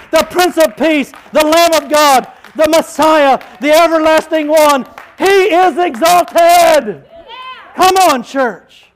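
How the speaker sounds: preaching at full force. Acted. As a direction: lift the church to its feet. Rallying church to stand.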